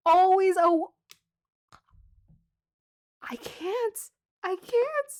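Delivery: high, loud voice breaking off; too thrilled to finish; overwhelmed excitement. Real, not acted. Tarot reader overwhelmed by the card, voice breaking.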